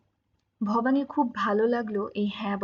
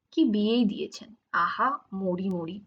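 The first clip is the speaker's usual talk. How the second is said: sarcastic lament; 3 semitones lower than usual. A narrator's reading. Wife sarcastic about old groom.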